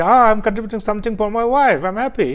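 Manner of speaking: imitating a proud husband, pitched a bit high; mildly proud, happy declaration; proud retold quote. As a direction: lightly act out proud delight. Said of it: "very proudly say".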